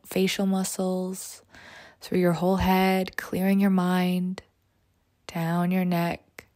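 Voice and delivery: slow, soft meditation voice; guided meditation. Acted. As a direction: guide them into calm, often whispering. Leads a meditation.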